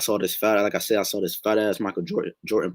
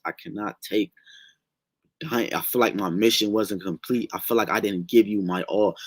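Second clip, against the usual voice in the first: desperate prayer. Retold or imitated. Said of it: "I kept praying and I kept praying".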